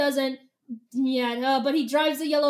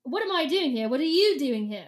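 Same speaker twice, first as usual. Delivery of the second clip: put-on indignant question in an English accent; lightly snooty English accent. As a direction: throw it back in British English. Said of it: "he was English".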